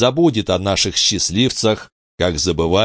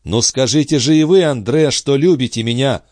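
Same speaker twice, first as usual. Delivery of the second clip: a higher, louder eager cry; Charny crying out to Andrée, louder and higher; exclaiming; 8 semitones higher, 4 dB louder than usual. A narrator's reading. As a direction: urge her passionately. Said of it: "вскричал Шарни".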